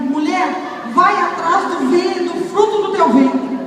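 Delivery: measured and weighty; solemn voice of Jesus. Retold or imitated. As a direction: pronounce it like a divine order. Jesus voiced pointing at her.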